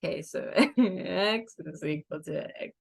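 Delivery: stifled laughter breaking through; fighting back a giggle; trying not to laugh. Real, not acted. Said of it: "Don't look at me, I'm gonna laugh".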